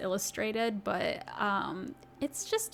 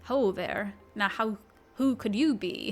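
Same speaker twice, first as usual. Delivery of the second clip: feeling out a Scottish accent, unsure; tentative Scottish accent. Shown as a demonstration. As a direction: rehearse the Scottish greeting, stumbling slightly. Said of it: "I'm gonna give it a shot".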